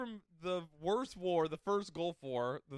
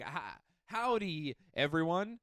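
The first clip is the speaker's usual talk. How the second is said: slow, hammed-up Texas greeting; bad Texas accent; 3 dB quieter, slower than usual. Imitating Nicolas Cage showing up on set, slow bad Texas accent. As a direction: drag it out in a mock Texas accent. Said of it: "with a bad Texas accent".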